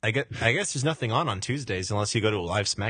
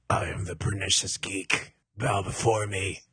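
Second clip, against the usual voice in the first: booming demon lord; 4 semitones lower than usual. Pretend. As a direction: proclaim it like a wrestling heel. Wrestler promo as new persona.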